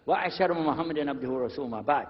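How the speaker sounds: rapid, practised recitation in Arabic; quick formulaic religious preamble; Arabic opening invocation. Real, not acted. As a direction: rattle off the formal opening praise fluently.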